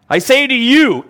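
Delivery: whole phrase "I say to you" pushed high and loud; emphatic. Shown as a demonstration. Preacher to his congregation, stressing "I say to you" emphatically. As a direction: lean hard on "I say to you" as a solemn declaration.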